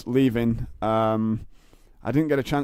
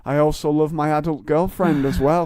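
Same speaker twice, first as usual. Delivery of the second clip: awkward flustered reply; 4 semitones higher, 4 dB louder, slower than usual. Pretend. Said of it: "I didn't know how to react to it".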